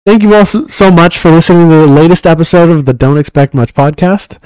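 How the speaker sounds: podcast outro read. Shown as a demonstration. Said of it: "my little read here".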